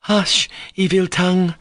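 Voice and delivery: sharp, high cry of anger; angry cry. A narrator's reading. Grushenka silencing Rakitin, crying out angrily. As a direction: silence his evil tongue. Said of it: "Grushenka cried angrily at him".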